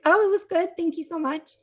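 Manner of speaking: high, loud, chirpy thank-you; bright thanks. Retold or imitated. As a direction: gush a little, pleased. Thanking her future husband cheerfully.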